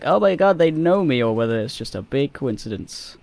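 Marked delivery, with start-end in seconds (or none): 0.0-1.2 higher, louder fangirl squeal; thrilled at being recognized; excited. Retold or imitated. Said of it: "I wonder what she was like".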